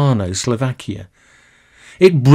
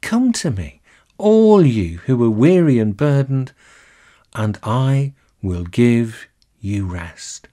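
a tender welcome from Jesus; loving invitation; 3 semitones lower than usual. Acted. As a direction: offer it lovingly, easing off at the end. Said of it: "Jesus looks at us so lovingly".

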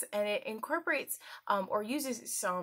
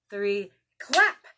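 excited counting; 8 semitones higher, 8 dB louder, slower than usual. Acted. Counting aloud with children.

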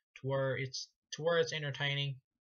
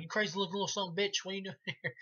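imitating Chop Top; 6 semitones higher, faster than usual. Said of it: "he's like".

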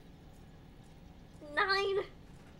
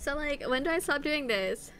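put-on Valley Girl lilt; 2 semitones higher than usual. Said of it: "in a Valley Girl voice".

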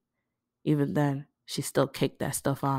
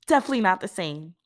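grinning; 5 semitones higher, 3 dB louder, faster than usual. Acted. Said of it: "Aisha grinned at her".

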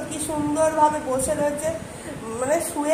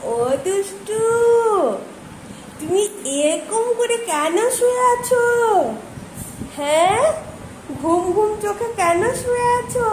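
higher, teasing voice for a sleepy pet; coaxing pet talk; 5 semitones higher than usual. Real, not acted. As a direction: gently tease the pet awake. (পোষা প্রাণীকে আদুরে খুনসুটির গলায় ডাকা)

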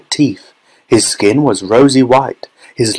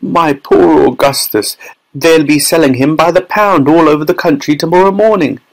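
higher, lamenting outcry; distressed wailing; 6 semitones higher than usual. A narrator's reading. Mother wailing over her son, distressed. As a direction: wail over your poor child.

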